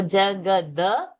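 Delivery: "jagada" slow, with a plain d; unaspirated d. Shown as a demonstration. Teacher isolating the alpa prana, "jagada" with unaspirated d. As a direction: say "jagada" slowly without a puff on the d. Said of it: "that the is alpa prana".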